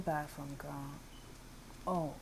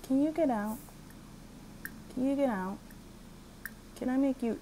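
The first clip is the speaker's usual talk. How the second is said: play-acted exasperation; 6 semitones higher, faster than usual. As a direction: throw them out in a pretend row. Acted quarrel, ordering visitor out.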